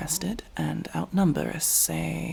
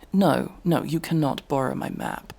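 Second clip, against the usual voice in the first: quick loud refusal; 4 dB louder than usual. Acted. Refusing to lend the map.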